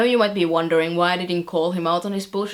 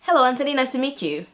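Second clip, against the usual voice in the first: higher, cheerily polite greeting; charming smile; 5 semitones higher, faster than usual. Retold or imitated. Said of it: "charming smile and go".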